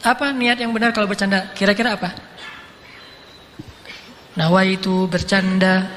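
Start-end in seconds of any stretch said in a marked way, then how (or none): 4.3-5.9 slow, low mock-solemn vow; mock recitation. Joker declares intention before joking, slow mock recitation. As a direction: recite it slowly like a formal intention.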